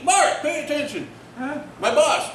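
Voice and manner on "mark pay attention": mock family yell. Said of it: "My family".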